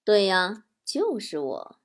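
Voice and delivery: low, softening sinister confirmation; cold sneer. Acted. Driver reveals himself to his passenger, sneering coldly. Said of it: "冷笑说".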